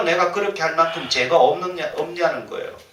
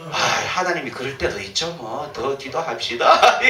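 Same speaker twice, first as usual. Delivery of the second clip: mock soothing; 2 semitones lower than usual. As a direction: soothe the deacon and hide your real thought. Pastor placating a complaining deacon.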